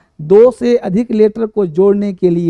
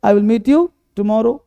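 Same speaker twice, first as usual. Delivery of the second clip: slow example sentence; slower than usual. Shown as a demonstration. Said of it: "ठीक है".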